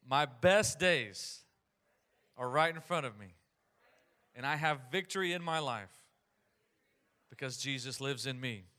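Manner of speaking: declarative phrases with long pauses for echo; leading a repeat-after-me. Real, not acted. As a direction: lead the crowd line by line, firm and projected. Congregation repeats each phrase after him.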